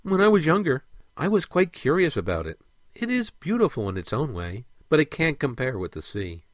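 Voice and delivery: lightly voiced mermaid, starting high and easing down; a hint of fond recollection; reminiscing mermaid.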